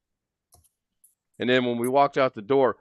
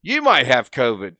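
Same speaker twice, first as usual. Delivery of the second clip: mock yell; 8 dB louder than usual. Retorting to the clerk.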